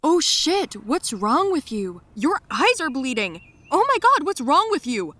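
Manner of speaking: high, loud panicked cry; panicked shout. Retold or imitated. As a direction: shout in shock at the bleeding eyes. Derek sees her bleeding eyes.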